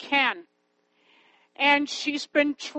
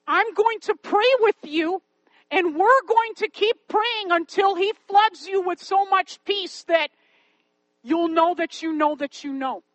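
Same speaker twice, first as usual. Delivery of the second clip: higher-pitched, insistent reassurance; earnest promise; 4 semitones higher, 3 dB louder than usual. Retold or imitated. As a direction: promise it firmly to a doubting child. Promising the girl prayer, retold.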